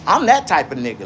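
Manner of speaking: ranting with a preacher's punch. Real, not acted. Livestreamer insisting on his own power, preacher-like rant. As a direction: go off like a street preacher. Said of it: "going off like a preacher".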